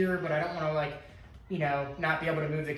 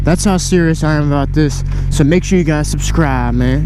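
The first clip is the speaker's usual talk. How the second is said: inside a helmet; 14 dB louder than usual. Real, not acted. Riding moto vlog in helmet mic.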